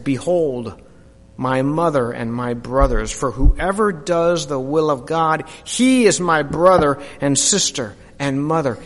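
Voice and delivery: gentle authority, not a big character voice; understated calm Jesus; lightly voiced Jesus.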